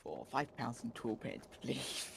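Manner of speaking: lightly put-on British accent, slow ordering at a counter; a hint of British accent, ordering a burger slowly; mock British accent. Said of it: "did I ever do a British accent".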